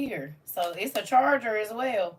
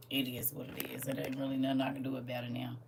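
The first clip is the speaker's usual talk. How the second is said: whisper; 7 semitones lower, 9 dB quieter, faster than usual. Real, not acted. Resigned aside to viewers.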